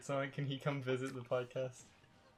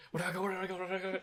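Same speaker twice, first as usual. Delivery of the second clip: crackhead Sonic; 6 semitones higher, much faster than usual. Retold or imitated. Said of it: "crackhead Sonic just running around the island".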